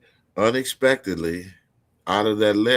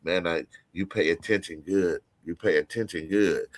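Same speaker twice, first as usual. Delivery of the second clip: low, quieter, unhurried mock advice; imitating the dog handler; 3 semitones lower, 4 dB quieter than usual. The handler at the show coaching him, lightly voiced. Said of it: "talking like".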